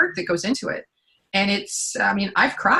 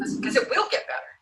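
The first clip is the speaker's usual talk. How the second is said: breathy whisper, pitched up; whispered aside; 12 semitones higher, 5 dB quieter than usual. Real, not acted. Coach whispering the promise to her co-host. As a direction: slip it in as a hushed aside.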